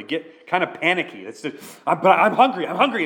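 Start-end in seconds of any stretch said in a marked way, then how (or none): 1.9-3.0 put-on high whining little child; whiny hungry kid. Pastor imitating his hungry little kids begging for food, high and whiny. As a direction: beg like a panicky hungry toddler.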